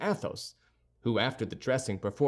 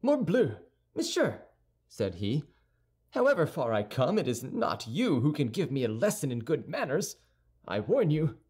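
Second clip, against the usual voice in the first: a touch of bristling pride; indignant youth. Acted. Young man warning Athos, mildly indignant.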